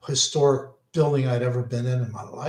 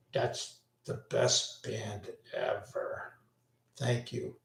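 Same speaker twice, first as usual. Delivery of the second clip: Irish brogue; 3 semitones lower, 11 dB quieter, slower than usual. Retold or imitated. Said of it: "in a strong Irish brogue".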